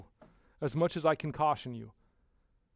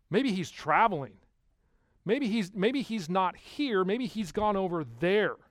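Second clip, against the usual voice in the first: higher-pitched mock suggestions; sarcastic taunt; 4 semitones higher than usual. Preacher replaying Elijah's taunt about Baal, sarcastic. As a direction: offer absurd excuses, voice lifted. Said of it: "uses sarcasm to prove a point".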